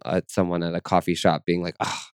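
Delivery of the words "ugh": a low, soft grumbled insult under the breath; muttered curse. Retold or imitated. Imitating her old self muttering a curse at a stranger in a coffee shop.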